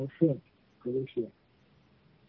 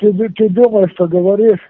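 angry; 3 semitones higher, 6 dB louder than usual. Real, not acted. Angry guy confronts caller.

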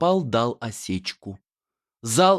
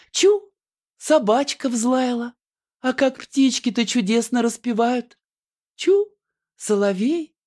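high cooing lullaby voice; high sing-song heroine lulling a baby; Annushka lulling; 11 semitones higher than usual. Acted. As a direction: coo to the baby in a high theatrical voice.

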